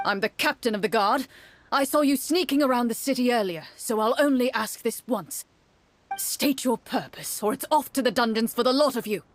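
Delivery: a hint of a guard captain, firm and wary; lightly voiced captain laying down an ultimatum; stern guard captain. Captain warns the sneaking outsiders, lightly stern.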